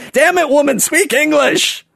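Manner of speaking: high, hammed-up demanding holler; mock-bully it, dragging out the last words; demanding ugly American. Ugly American demanding English from poor woman, mock outrage. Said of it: "this ugly American who's just demanding".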